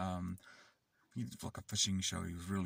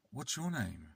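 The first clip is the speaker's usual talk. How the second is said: mildly raised, imitated child's question; 5 semitones higher than usual. Kid first asks the silent carer's name, restrained demand. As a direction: ask it as a child sizing someone up. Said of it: "He said".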